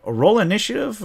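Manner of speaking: can't believe it, with minutes left; incredulous. Retold or imitated. Players questioning the GM's call, incredulous and high.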